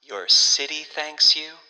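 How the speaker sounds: loud, swelling, gushing thanks; grand gushing hostess. A narrator's reading. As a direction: build it up like a proud announcement. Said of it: "said the hostess".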